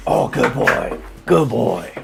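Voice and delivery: high, breathy praise for the dog. Real, not acted. Owner praising his dog after it barks on command, high and excited.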